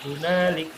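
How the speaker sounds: slow "hunalik" begun afresh; resumed recitation. Shown as a demonstration. Teacher resumes after the stop, slow "hunalik". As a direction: chant "hunalik" with a long middle a. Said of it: "kalau berhenti".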